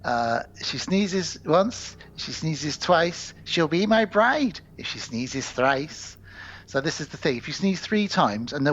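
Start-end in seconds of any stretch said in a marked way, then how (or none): 0.6-6.2 slow, sing-song verse; leprechaun rhyme. Acted. Leprechaun claims a bride by rhyme, slow chanted verse. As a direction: recite it slowly like a playful spell. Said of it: "says this funny little rhyme".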